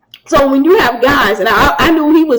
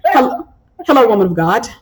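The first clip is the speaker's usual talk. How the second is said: polite new client. Retold or imitated. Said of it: "customers I have now sound like".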